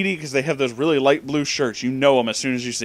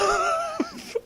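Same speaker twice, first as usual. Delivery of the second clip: very high breathless squeak of laughter; squealing laugh; 6 dB quieter than usual. Real, not acted. Laughing at cop doing nothing.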